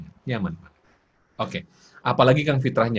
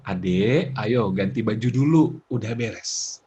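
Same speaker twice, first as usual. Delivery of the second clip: lower, coaxing parent voice; calm parent; 4 semitones lower, slower than usual. Shown as a demonstration. Parent asking child to change clothes, calm. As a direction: gently tell the child.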